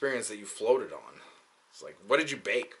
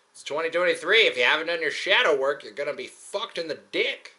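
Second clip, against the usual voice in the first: raised, emphatic imitation of online preaching; mock-lecture them in a higher voice; preachy mock warning; 5 semitones higher, 4 dB louder than usual. Internet people warning him about shadow work, mock preachy.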